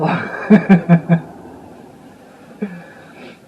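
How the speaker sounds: big high laugh bursting out; loud burst of laughter. Real, not acted. Laughs recalling the blackout.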